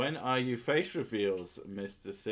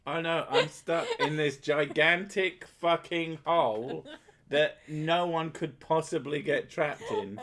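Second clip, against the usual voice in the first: mock porn victim; 5 semitones higher, 5 dB louder than usual. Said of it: "parodying porn lines".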